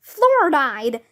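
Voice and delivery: name stated as "Fluoride", falling, no question; announcing. A narrator's reading. Superhero introduces herself as "Fluoride", announcing. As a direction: announce "Fluoride" evenly as your hero name. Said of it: "announced the superhero".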